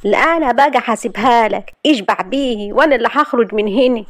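stamping her foot in a fit of pique; sulky outburst at her cousin. Acted. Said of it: "دبت الأرض برجليها وغيظ وقالت".

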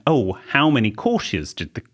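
a hint of Miami accent, slow. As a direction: drawl it like a Miami man. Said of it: "he went".

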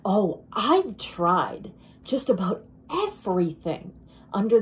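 lightly acted dramatic monologue, earnest and self-doubting; a woman laying her insecurity bare; Linda. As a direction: confide in a stranger with long, weighted pauses.

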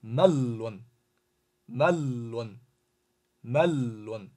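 melon with the l held long; teacher repeating melon, lengthening the l; held doubled l. Shown as a demonstration. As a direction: draw the l in melon out, mel-lon. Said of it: "怎么读".

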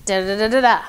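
presenter demo with long pauses between phrases; one phrase per person. Shown as a demonstration. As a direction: deliver one phrase, pause, then the next. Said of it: "do one phrase to one person".

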